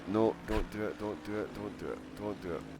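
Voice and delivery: beg, then trail off to almost nothing; fading plea. Real, not acted. Pleading with chat, fading.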